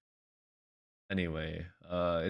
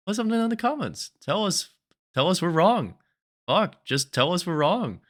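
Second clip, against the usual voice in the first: higher, louder challenge to viewers; rising, insistent call to comment; excited pleading; 10 semitones higher, 5 dB louder than usual. Real, not acted. Begging viewers to disagree.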